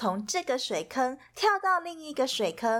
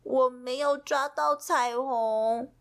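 sadly; 2 semitones higher than usual. Acted. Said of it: "皮皮难过地说".

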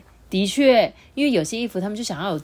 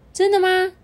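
high, loud delighted gasp; thrilled little button voice; excited; 12 semitones higher, 6 dB louder than usual. Acted. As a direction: burst out in joy.

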